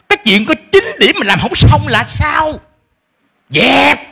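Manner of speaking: hammed-up scolding with a laugh; angry parent. Shown as a demonstration. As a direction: berate the child in mock fury. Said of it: "mock angry parent".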